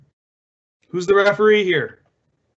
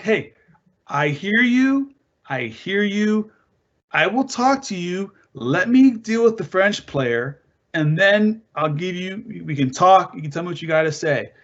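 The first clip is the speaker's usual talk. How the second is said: calm her down, slowly: I hear you; compassionate referee. Shown as a demonstration. Referee calming an upset player, slow and soothing. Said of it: "you can be compassionate, like, five".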